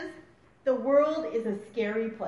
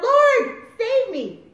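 high, loud plea for rescue; raised, urgent cry to the Lord; 10 semitones higher, 9 dB louder, much slower than usual. A narrator's reading. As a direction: call out desperately as you sink. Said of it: "he cried out".

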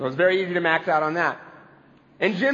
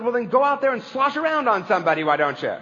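snapped retort; 4 semitones higher than usual. Retold or imitated. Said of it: "he snapped".

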